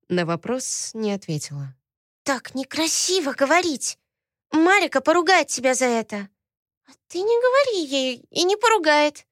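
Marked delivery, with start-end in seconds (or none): 2.2-6.3 put-on high childish voice, mildly scolding; a small girl telling off her sister; little girl scolding. Little girl tells sister off, childish scolding. 6.9-9.2 put-on high childish voice, mildly scolding; a small girl telling off her sister; little girl scolding. Little girl tells sister off, childish scolding.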